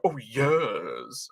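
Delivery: imitating family's posh teasing, "years" drawn out; mock-posh British, falling on "years"; mocking posh accent. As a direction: tease with a long posh "years". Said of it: "my family usually make fun of you".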